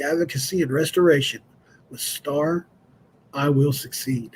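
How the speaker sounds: memorized creed recited by rote; recitation from memory. Acted. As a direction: rattle off a pledge learned by heart. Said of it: "I can still remember the entire thing".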